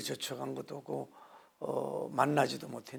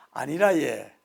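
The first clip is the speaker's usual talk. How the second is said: louder Gyeongsang reply; Gyeongsang accent; 9 dB louder, slower than usual. Retold or imitated. Pastor mimicking Gyeongsang speech, loud Gyeongsang accent. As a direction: brush it off like a Gyeongsang local. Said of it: "경상도는".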